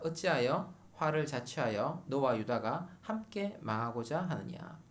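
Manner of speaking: slow, deliberate Bible reading; scripture reading. Acted. Preacher reading the verses to the congregation, slow and solemn. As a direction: read the verses slowly and solemnly. Reads scripture aloud slowly.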